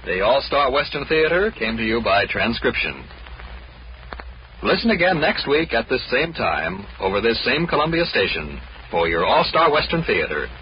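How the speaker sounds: put-on old radio announcer.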